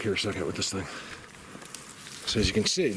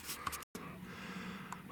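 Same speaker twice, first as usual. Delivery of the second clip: heavy sigh; 17 dB quieter than usual. Real, not acted. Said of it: "I'm really out of breath".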